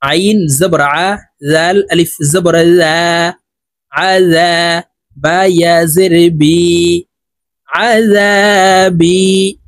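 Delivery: slow, drawn-out letter-by-letter recitation; Qaida spelling drill. Shown as a demonstration. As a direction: stretch the long vowels on a level tone. (ধীরে টেনে টেনে কায়দার বানান পাঠ)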